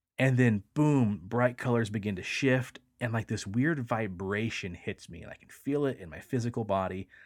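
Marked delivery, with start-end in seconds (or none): none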